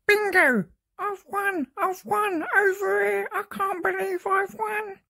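high thrilled cry of winning; excited. Acted. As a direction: shriek out the win. Mildred wins the bingo.

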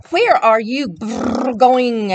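burbling fish voice; bubbly fish voice. Acted. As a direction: blow bubbles through the words. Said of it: "asked the fish".

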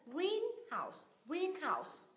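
"greenhouse" as GREEN-house, GREEN high and stretched; teacher's model of "greenhouse", weight on GREEN; stress on first syllable. Shown as a demonstration. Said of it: "Nhấn tiết thứ nhất".

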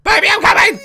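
hammed-up shout coming to the baby; playful loud call. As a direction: call out like a doting parent. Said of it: "Come here".

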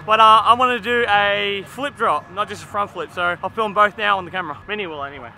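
slushy sh for s, mouth guard in. Real, not acted. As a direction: talk through a mouth guard. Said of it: "talking with my mouth guard in".

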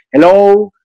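hammed-up Latino English speaker; Latin accent English. Actor mocking Latin-accented English in Hollywood, playful. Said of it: "pero no inglés con, con Latin accent".

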